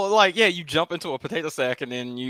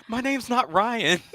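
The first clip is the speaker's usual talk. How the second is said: laughing; 8 semitones higher, slower than usual. Retold or imitated. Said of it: "And they're like".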